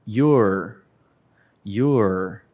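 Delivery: "Your" said slowly with a clear r; teacher modelling "Your" twice for repetition; model pronunciation. Shown as a demonstration. Teacher drills the class, "Your" slow and clear. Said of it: "vamos praticar a pronúncia".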